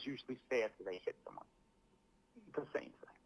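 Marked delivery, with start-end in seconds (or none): 2.5-3.2 drops to a whisper; whispered dramatic aside; hushed. Real, not acted. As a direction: breathe it out unvoiced. Dramatic hushed apology read.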